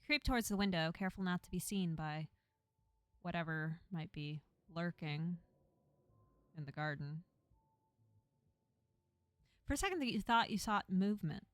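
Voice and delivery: low, hushed-leaning storyteller; story narration. Acted. Reads the game's narration.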